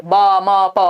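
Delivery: "बा, मा, पा" drawn out one by one; single syllables. Shown as a demonstration. Teacher recapping babbling, one long syllable at a time. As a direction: sound out "बा, मा, पा" as long separate syllables. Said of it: "single syllable word".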